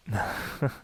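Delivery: brief, breathy chuckle; short chuckle. Acted. Hunter gloating over a caught monster, short chuckle. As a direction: let out a small smug laugh.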